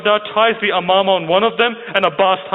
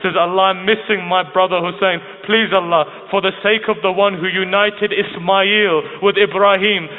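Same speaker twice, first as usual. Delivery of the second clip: imploring, slow drawn-out plea; mildly impassioned retelling of a tearful plea; retold tearful prayer; slower than usual. Sister pleads with Allah for her brother, retold tearful prayer. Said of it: "she was crying".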